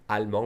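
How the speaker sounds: "allemand" ending in a nasal vowel, no D; silent final D. Shown as a demonstration. Teacher explaining spelling to learners, "allemand" without a D. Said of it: "we don't say the D".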